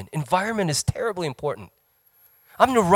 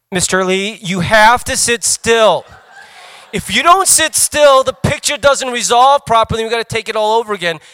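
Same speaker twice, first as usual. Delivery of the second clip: snooty technician; 7 semitones higher, 10 dB louder than usual. Retold or imitated. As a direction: scold him like a fed-up technician. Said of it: "this sort of snooty girl".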